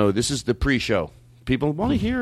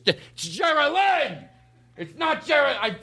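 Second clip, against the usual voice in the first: imitating Blake; 13 semitones higher, much slower than usual. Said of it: "He goes".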